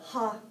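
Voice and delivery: "ha" with an audible, airy H; isolated first sound. Shown as a demonstration. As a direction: stress "ha", sounding the H of hate. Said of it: "which is different than the".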